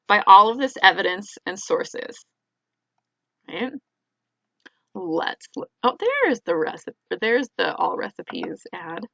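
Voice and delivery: talking while chewing gum; words around a wad of gum. Real, not acted. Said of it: "doing this whole thing with gum in my mouth".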